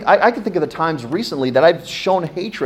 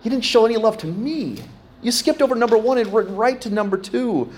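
pretend God; 10 semitones higher than usual. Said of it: "God going".

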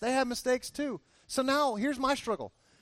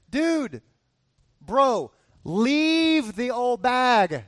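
louder, drawn-out mock bro advice; blunt buddy advice; 2 semitones higher, 6 dB louder, much slower than usual. Friend urging Hosea over coffee to leave his wife, loud slow mock bro voice. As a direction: play the pushy friend telling him to quit her. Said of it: "We'd say".

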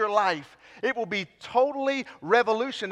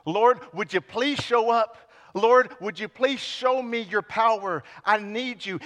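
pleading prayer; 3 semitones higher than usual. Pretend. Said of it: "were pleading with God".

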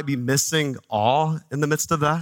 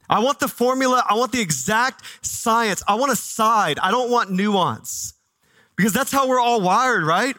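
higher, pressing sermon voice, slowing on nuance; rising preaching intensity; 5 semitones higher than usual. Acted. Preaching builds on wanting answers.

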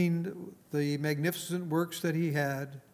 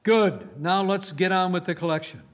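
mock shout; 2 semitones higher, 5 dB louder than usual.

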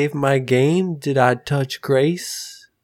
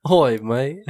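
put-on British accent. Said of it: "British" version of the speaker.

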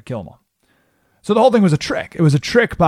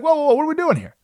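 alarmed rallying cry; 13 semitones higher, much faster than usual. Retold or imitated. Xenophon snapping the whining soldiers awake.

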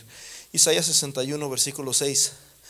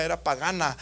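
usual speaking voice

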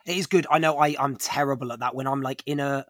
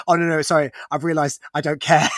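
louder, laughing through the quote; 6 dB louder than usual. Retold or imitated. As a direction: laugh out the punchline. Quoting the director's reversal.

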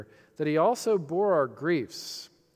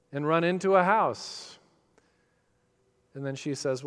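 brisk, lively picture-book reading with voiced bunny and mother; reading to children; faster than usual. Preacher reading The Runaway Bunny to his congregation, storybook voice. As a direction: read it like a bedtime story to little girls.

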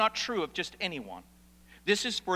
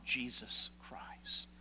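whispered name; 6 semitones lower, 12 dB quieter, much slower than usual. Real, not acted. Closing line of a run.

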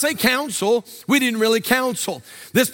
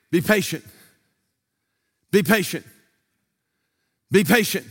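low, measured pastoral counsel; calm reassurance; 5 semitones lower than usual. Retold or imitated. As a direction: gently hold them to waiting, low-pitched. Pastor retells calming the unmarried.

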